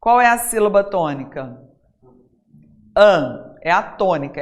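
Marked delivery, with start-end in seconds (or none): 3.0-3.6 AN said alone, loud and lower; stressed syllable. Shown as a demonstration. Teacher isolates the strong syllable of anjo, stressed "An". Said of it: "é a forte".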